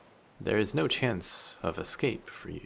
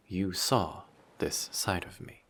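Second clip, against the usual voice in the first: normal talking voice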